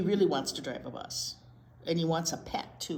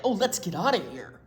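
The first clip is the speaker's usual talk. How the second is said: fly voice; 7 dB louder than usual. Acted. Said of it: "said the other fly".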